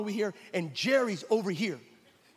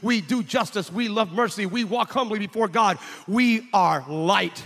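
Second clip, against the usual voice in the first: louder, rhythmic list; preaching litany; 3 dB louder than usual. Acted. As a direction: build the list line by line. Litany of Christian deeds.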